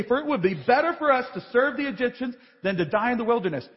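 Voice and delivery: fast, dismissive run-through of the line; brisk mocking quote. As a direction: rattle it off as the mistake it is.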